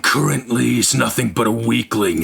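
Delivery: low scornful villain voice; menacing villain. Acted.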